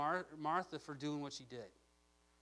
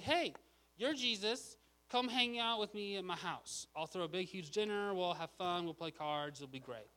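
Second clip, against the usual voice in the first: eager invitation; 3 semitones higher than usual. Retold or imitated. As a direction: call out brightly to a celebrity, then chat him up. Bold excited invitation acted out.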